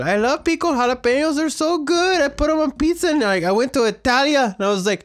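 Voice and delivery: high, bubbly gushing; gushing excitement. Real, not acted. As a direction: rave about pickled jalapenos. Gushing about jalapenos.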